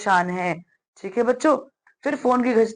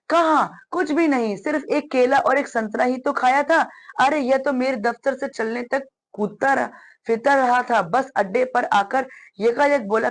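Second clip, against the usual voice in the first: lightly voiced, slightly higher father's part; protesting father; 3 semitones higher than usual. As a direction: read the father's lively defence of what happened. (हल्के अभिनय में सफ़ाई देते पिता)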